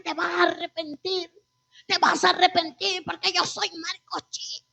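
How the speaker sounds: retold yell, held back in volume; mock yell. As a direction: boast and threaten as the shouting father. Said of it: "gritaba, porque mi papá tiene una voz fuerte".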